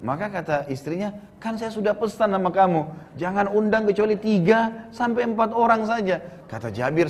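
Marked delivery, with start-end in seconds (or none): 1.4-6.2 higher-pitched, mildly exasperated reminder; acted wifely reproach. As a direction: lightly voice a reproachful wife. Wife scolds Jabir, acted. (menirukan istri mengomel, nada lebih tinggi)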